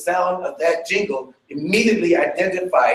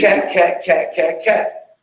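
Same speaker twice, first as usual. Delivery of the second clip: vocalography cue; slower than usual. Shown as a demonstration. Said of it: "No, you say".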